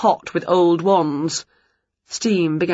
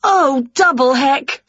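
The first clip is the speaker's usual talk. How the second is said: high, loud, slow dismay; shriek; 5 semitones higher, 3 dB louder than usual. Acted. Winnie in her undies shrieks at the door, high and loud. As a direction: shriek in embarrassment. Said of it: "she shrieked".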